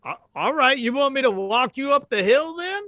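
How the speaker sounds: a concerned camp hand; cowboy voice. Acted. GM voices Jim.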